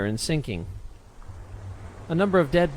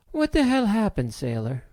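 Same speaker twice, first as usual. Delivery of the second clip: demanding question; 6 semitones higher than usual. A narrator's reading. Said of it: "she questioned".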